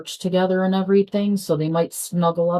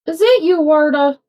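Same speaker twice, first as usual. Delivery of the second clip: raised, high call to another room; 10 semitones higher, 4 dB louder than usual. Real, not acted. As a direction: call the cat from afar. Calling out to her cat.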